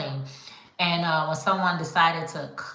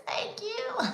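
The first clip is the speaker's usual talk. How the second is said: softer, breathy whispered thanks; whispered thank you; 8 dB quieter than usual. Retold or imitated. Maker thanking a customer, bashful whisper.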